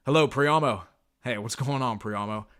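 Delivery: confident greeting. Shown as a demonstration. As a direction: sound sure of yourself. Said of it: "you have to speak with confidence".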